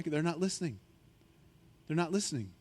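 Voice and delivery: soft pointed repeat; quiet emphasis. Real, not acted. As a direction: let it sink in quietly. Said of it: "repeated for emphasis".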